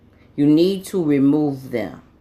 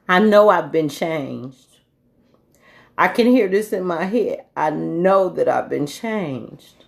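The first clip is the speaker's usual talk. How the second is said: tearful. Real, not acted. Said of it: "I'm crying because".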